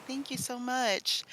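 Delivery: softly sighed thank-you; grateful. Acted. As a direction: murmur heartfelt thanks, drawn out. Acts out grateful look to helper.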